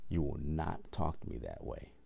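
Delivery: controlled boundary-setting at normal volume; firm, measured telling-off. Retold or imitated. Repeating what he told the coworker, firm and controlled. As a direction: state it evenly, no shouting. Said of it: "I said it just like that".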